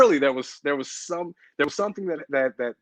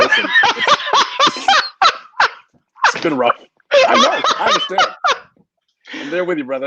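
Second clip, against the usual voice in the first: mock sympathy; 4 dB louder than usual. Mock consoling over Catholic school.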